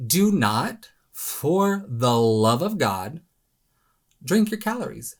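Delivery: slow, drawn-out "for the love of God"; emphatic plea. Real, not acted. Dramatic plea against drinking calories.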